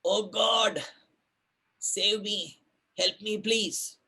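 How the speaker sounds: high, pleading cry for help; desperate climber calling out in the dark; crying out to God. Retold or imitated. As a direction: beg God to save you, voice up high. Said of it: "So he cries out".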